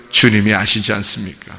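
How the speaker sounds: low, subdued reply; humbly deferring to his Lord; humble Peter. Retold or imitated. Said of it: "자기가 사랑한다고 막 이렇게 나대지 않아요".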